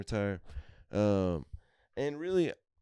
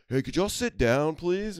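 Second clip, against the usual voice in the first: higher, louder put-upon fan voice; mock polite request; 9 semitones higher, 4 dB louder, slower than usual. Pirates fan asking the rowdy kids to sit, higher fussy plea. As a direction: ask them to sit with strained politeness.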